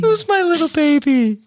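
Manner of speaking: put-on high laughing baby voice; baby talk. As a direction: coo it through a laugh. Imitating Gino's baby talk.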